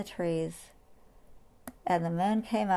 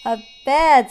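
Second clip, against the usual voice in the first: surprised; 6 semitones higher, 13 dB louder than usual. Acted. Animals exclaim in surprise.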